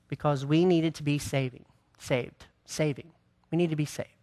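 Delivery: breathless after preaching; winded, catching breath between words. Real, not acted. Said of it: "let me catch my breath".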